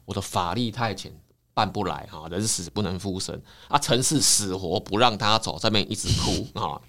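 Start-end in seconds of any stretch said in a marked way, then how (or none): 0.0-3.4 put-on a hushed, softer old priest voice; Taoist priest declining. Taoist priest quietly turning down the weeping wife, soft and resigned. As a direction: murmur the refusal gently but firmly. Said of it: "道士说".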